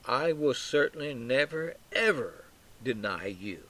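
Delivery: measured vow leaning on "never, ever"; emphatic. Acted. Peter using a double negative to Jesus, emphatic. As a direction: set "ever" apart for weight. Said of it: "Peter's emphatic".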